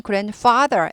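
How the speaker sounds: "grandfather" with a clear f in father; lip-to-teeth f in "grandfather"; f sound. Shown as a demonstration. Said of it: "f 발음이었는데".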